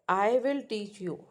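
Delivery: "I will teach you" with pitch rising, then falling; rise-fall intonation. Shown as a demonstration. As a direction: let "I will teach you" lift and drop. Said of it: "So there are rise, fall in my tone".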